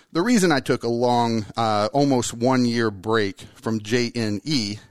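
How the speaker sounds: winded, breathing heavy. Real, not acted. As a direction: talk while short of breath. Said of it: "I'm, like, breathing heavy right now".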